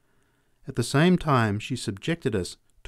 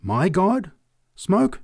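high, loud, scandalised questions; indignant; 9 semitones higher, 5 dB louder, much slower than usual. A narrator's reading. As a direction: recoil in outrage at the idea. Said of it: "drew herself indignantly erect".

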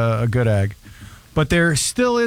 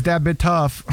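clipped slurred "Da bit tough"; imitating teen's mumbled accent; slower than usual. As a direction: mumble it like the teen. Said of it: "the way he says".

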